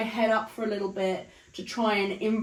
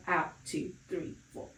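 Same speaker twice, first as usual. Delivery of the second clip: instructor counts the exhale, voice fading to breath; breathy counting; 4 semitones lower, 10 dB quieter than usual. Shown as a demonstration. Pilates instructor counting breaths, fading to breathy. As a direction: let the count fade out on the breath.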